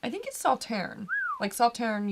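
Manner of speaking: "Sauternes" with no S at the end; silent final S. Shown as a demonstration. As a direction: stop "Sauternes" on the n. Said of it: "you don't say the S".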